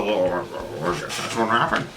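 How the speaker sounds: mock gullible. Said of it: "we're just supposed to go".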